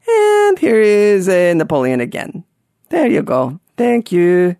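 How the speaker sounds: lightly put-on, made-up guide voice; audio guide voice. Audio tour guide introducing Napoleon, put-on voice. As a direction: do some vague tour-guide voice, not quite French. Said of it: "do some sort of voice".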